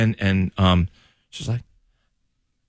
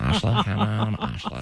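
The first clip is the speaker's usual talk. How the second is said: softer mock Valley Girl accent; over-the-top California accent; 2 semitones lower, 5 dB quieter than usual. Host imitating coworker, over-the-top California accent. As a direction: imitate exaggerated Californian vowels. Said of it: "it was so over the top".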